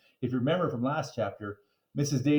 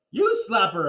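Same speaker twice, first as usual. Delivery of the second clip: shouted; 6 semitones higher, 6 dB louder than usual. A narrator's reading. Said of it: "I shouted".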